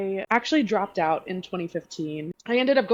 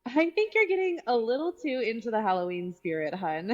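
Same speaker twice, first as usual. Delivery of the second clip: put-on Valley Girl voice; 2 semitones higher than usual. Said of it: "I love your accent for Elise".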